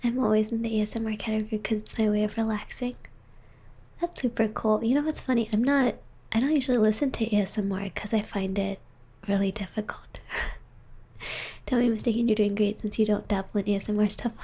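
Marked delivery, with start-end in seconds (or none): 0.0-3.0 whispering. Real, not acted. Whispering ASMR stream. 5.5-12.3 whispering. Real, not acted. Whispering ASMR stream.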